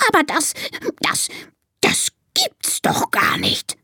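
stunned stammer. Acted. Monkey shocked by the dancing elephants, stammering. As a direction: stammer in disbelief, pausing between repeats. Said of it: "stottert er".

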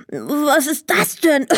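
slow, wondering question; a boy rubbing dusty eyes, confused; puzzled boy. A narrator's reading. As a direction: Emil coughing on fairy dust, puzzled and slow. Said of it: "fragte er verwundert".

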